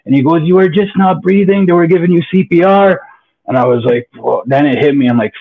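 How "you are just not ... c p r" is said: retold scream. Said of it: "There's a guy screaming".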